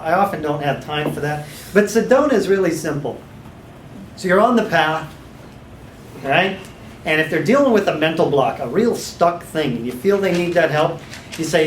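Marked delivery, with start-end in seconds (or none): none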